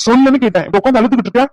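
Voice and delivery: impatient, bullying demand; intimidating. Acted. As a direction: press a crying person for an answer. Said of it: "சும்மா மிரட்டிக்கிட்டு இருக்கீங்க".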